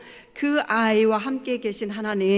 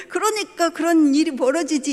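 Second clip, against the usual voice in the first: higher, louder, half-laughing scolding father; mock scolding; 6 semitones higher, 5 dB louder than usual. Father's imagined rebuke of lazy daughter, mock scolding. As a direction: scold her like an exasperated dad, half joking. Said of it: "이렇게 말할 수 있었죠".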